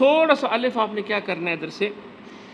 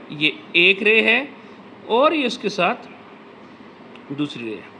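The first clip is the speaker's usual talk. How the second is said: slow, spaced-out explaining; walk the kids through it slowly; teacher repeating slowly for children; slow demonstration. Shown as a demonstration. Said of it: "कैसे लगाई?".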